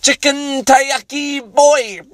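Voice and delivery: put-on high, drawn-out caricatured Asian accent; slow, high-pitched singsong mock Asian accent. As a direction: call it out in an exaggerated Asian restaurant-cook accent. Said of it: "offensive accent, but they go".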